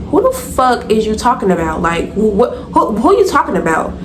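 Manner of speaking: acted indignant challenge, pitch jumping up; confrontational. Narrator confronts the girl talking about her, confrontational. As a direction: demand an answer, mildly heated.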